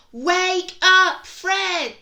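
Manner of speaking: loud high wake-up shout. Acted. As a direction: yell it to wake a sleeper. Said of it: "will you shout with me".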